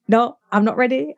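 high, loud mock panic. Dodging the stepmom's needle with playful panic, high and loud. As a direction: beg off the needle in playful alarm.

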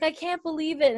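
imitated amazement, high-pitched; Claire, amazed. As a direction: act out happy disbelief. Claire overcome at the reunion.

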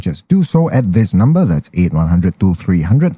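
radio voice. Acted. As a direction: read it like a radio sponsor spot. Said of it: "when you use your radio voice, ah, you go very soft".

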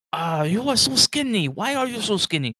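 high, loud mock concern; booming worried orc; fussing orc. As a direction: scold them for being skinny, big-hearted. Orc fusses over skinny guest.

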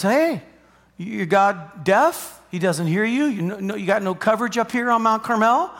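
mock-innocent taunt with rising questions; acted taunting of a rival. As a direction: needle them, pitch swooping up on the questions. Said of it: "Elijah starts to mock him".

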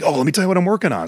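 hammed-up fanboy excitement; giddy fanboy. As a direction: toss it off like an eager kid with news. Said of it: "and like".

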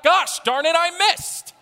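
very high, loud shouted cry of God; loud booming voice. Acted. God's voice shouts from heaven after missing, very high and loud. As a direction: bellow it from heaven. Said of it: "a loud booming voice shouts out".

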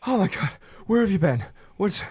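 high, fast panicked aunt; frantic aunt. Acted. Aunt shrieking at the missing nephew, high and fast. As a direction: burst out in shock at the lost kid.

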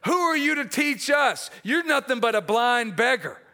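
angry Pharisees. Retold or imitated. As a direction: scold him like an offended elder. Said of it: "They're mad. They're angry".

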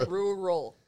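careful rural. Shown as a demonstration. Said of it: "I always have to, like".

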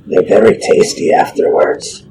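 whispered, hissing lizard voice; the lizardfolk cleric questions the halfling, hissed. Acted. Usk speaks in character.

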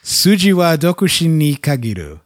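"Suji wa dokushin ni kagiru." read out in careful Japanese; Japanese phrase. Shown as a demonstration. Host reading the Sudoku origin phrase aloud, careful Japanese. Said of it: "that accent's probably garbage".

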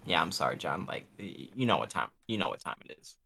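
low, very quiet mock apology; apologetic God. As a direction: play God letting John down softly. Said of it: "God's like".

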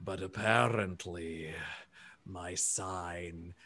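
low, very slow, soft giant; drawn-out apology in a deep, gentle voice; sheepish elephant person. Acted. Elephant alien apologizes for his unclear sign, sheepish and slow. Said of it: "hunches his shoulders a bit, and he says".

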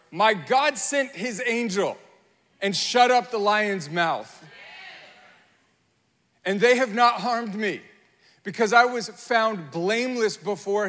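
triumphant shout from the den; loud proclamation. Acted. Daniel calling up from the den.

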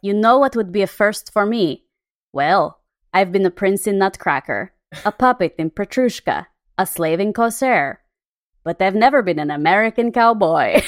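a hint of a Russian accent; Baryshnikov Russian accent. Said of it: "I'm gonna try to do a Russian accent".

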